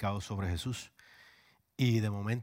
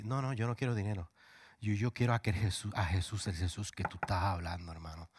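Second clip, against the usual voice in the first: earnest plea. Retold or imitated. Drunk man asks for Jesus.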